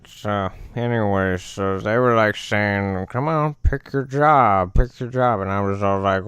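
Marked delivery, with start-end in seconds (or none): 3.1-5.4 higher-pitched acted nagging; impatient urging. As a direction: chivvy him along, voice raised in pitch. Other gods urge him to choose.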